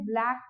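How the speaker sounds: "ब्लैक" said in one beat; single syllable. Shown as a demonstration. Teacher showing learners a one-syllable word, single beat on "ब्लैक". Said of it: "एक बार में बोलते हैं".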